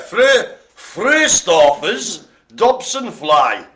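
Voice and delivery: slow, loud, careful over Fröstorfer's; sounding out a hard name; halting reading of a hard Latin name. Real, not acted. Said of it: "the ones I was have problems with reading".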